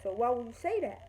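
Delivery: mildly heated retold challenge; getting mad. Confronting a girl over her grandma remark, getting mad. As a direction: press the question with a touch of anger. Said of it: "I was getting mad".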